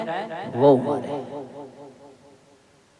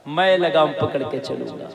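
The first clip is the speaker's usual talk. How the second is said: softly savoured. Shown as a demonstration. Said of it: "हाय, हाय".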